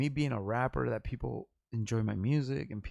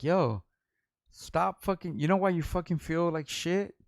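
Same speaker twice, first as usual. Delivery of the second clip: higher, scolding lecture; chastise mode; 6 semitones higher, 5 dB louder, slower than usual. Retold or imitated. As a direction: imitate yourself scolding a friend. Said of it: "I went into chastise mode".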